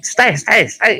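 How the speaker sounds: high and loud urgent calling; excited calling out. Retold or imitated. Club manager rushing over and calling out, high excited voice. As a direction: call him back, excited.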